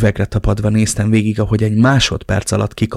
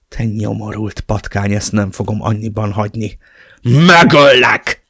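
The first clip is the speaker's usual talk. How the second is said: screaming at the top of his lungs; 4 dB louder than usual. Acted. Father screaming a death threat at the kidnapper. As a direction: build from seething to an all-out roar. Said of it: "ordítottam, ahogy a torkomon kifért".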